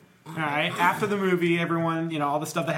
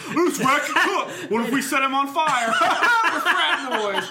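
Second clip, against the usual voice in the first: frat bro; 8 semitones higher, 4 dB louder, slower than usual. Acted. Frat boys voiced in pitch.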